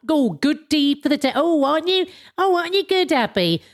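put-on patronising approval; mock praise. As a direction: gush in pretend admiration of a good deed. Mock praise of own good deed.

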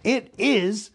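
high, drawn-out excited cry. Acted. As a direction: announce it triumphantly, stretching the words. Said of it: "he cried".

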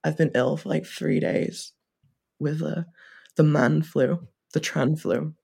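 ill, creaky vocal fry. Real, not acted. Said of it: "got extreme vocal fry".

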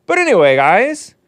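high, drawn-out showman's shout; show-launch shout. Pretend. Host kicking off his show for listeners, big drawn-out shout. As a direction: belt out the show intro, stretching the last words.

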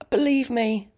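breathy, whispered aside; hoarse whisper. Real, not acted. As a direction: whisper it, voice nearly gone. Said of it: "As you can hear".

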